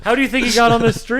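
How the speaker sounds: fast, laughing question. Real, not acted. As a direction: giggle through the whole line. Joking, laughing while talking.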